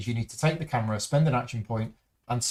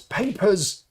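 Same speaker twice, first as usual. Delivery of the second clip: high-pitched mock yell, no real volume; angry yell; 8 semitones higher than usual. A narrator's reading. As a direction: call it out like an intimidating officer, lightly acted. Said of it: "sees you looking at him and yells".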